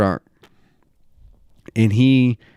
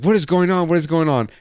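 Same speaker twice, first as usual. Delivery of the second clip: mock-alarmed repeated question, raised pitch; imitating alarm; 4 semitones higher than usual. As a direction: imitate a confused friend demanding answers. Friend arrives alarmed, asks twice.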